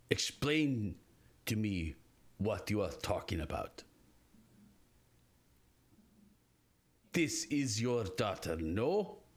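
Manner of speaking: low, measured demand; stern Bramble. Acted. Bramble grabs her and demands an explanation, low and measured. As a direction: demand an answer slowly, voice sinking low. Bramble forces mother to answer.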